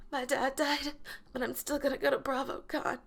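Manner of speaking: mock dramatic post. Announcing to Instagram in a sheet mask: mock dramatic. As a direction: gasp then announce bravely. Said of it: "I was like".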